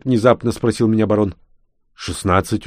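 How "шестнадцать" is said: ordinary delivery, nothing marked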